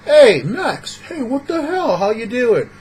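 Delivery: loud, high-pitched hail over people's heads; brash butting-in. Acted. Rude guy cuts into someone else's conversation, brash. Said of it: "you're trolling him to his face".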